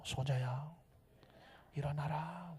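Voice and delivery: very soft, hushed command; 속삭이듯 강조. Shown as a demonstration. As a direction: keep it low and near a whisper. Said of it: "제가 속삭일 때는 강조하려고 속삭이는 거예요". (아주 작게 속삭이듯)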